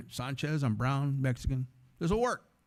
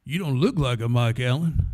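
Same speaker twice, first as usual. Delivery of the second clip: put-on good old boy; 3 semitones lower than usual. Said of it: "This good old boy".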